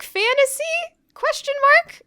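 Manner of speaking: squeaky high question mark; mock dramatic high. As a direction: pitch it way up for effect. Reading punctuation dramatically.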